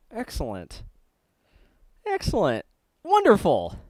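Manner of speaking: talking through a mouthful of food; words muffled round a bite; mouth full. Real, not acted. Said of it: "talking with my mouth full".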